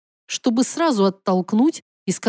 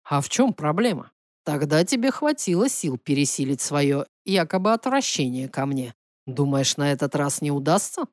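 lightly voiced prince, low-pitched; provoking prince; 5 semitones lower than usual. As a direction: challenge her in a lowered male-character voice. (пониженный голос принца, с подначкой)

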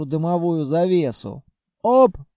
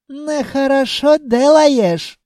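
put-on high, loud Caucasian accent taunt; 9 semitones higher, 7 dB louder, slower than usual. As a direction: yell across in a Caucasian accent. Jinn scolds in accent.

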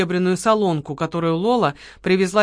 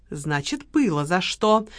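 hard, firm; slower than usual. Acted. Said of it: "жёстко сказала Лола".

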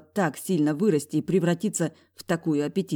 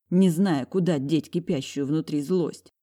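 usual speaking voice

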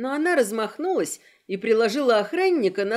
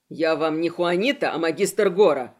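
indignant bark; 6 semitones lower than usual. Acted. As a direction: snap back offended. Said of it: "рявкнул тот".

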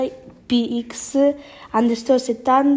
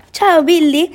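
higher, louder read-out call; mild shout; 4 semitones higher, 5 dB louder than usual. A narrator's reading. Miko greets Billy on his return, lightly shouted. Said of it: "gridò Miko".

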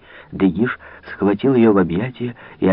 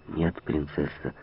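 взволнованно; 4 semitones lower, 9 dB quieter, slower than usual. A narrator's reading. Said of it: "отвечал взволнованный граф".

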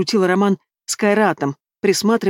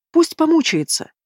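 drawn out, pitched much higher; gloating; 10 semitones higher than usual. A narrator's reading. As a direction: savour the thought of his suffering. Natasha relishing revenge.

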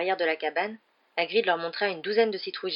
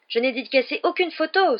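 much higher, louder angry denial; flaring up; 8 semitones higher, 6 dB louder than usual. Acted. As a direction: snap back, furious at the accusation. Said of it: "s'emporta-t-il".

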